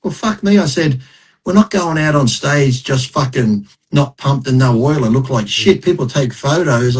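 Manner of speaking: mildly exasperated retort; retold annoyance. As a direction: replay an irritated objection. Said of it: "now I'm getting annoyed".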